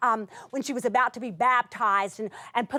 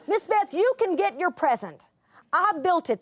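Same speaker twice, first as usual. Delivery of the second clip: put-on reading a child's letter; 6 semitones higher than usual. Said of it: "part of her letter".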